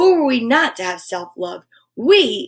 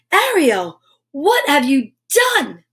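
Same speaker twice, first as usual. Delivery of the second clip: alarmed cry; 3 semitones higher, slower than usual. Acted. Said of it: "she cried".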